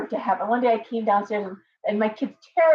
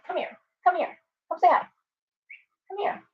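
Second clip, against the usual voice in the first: much higher sing-song pet call; high cooing come here to a parrot; 9 semitones higher than usual. Real, not acted. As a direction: coo at the bird way up high. Calling the bird to her.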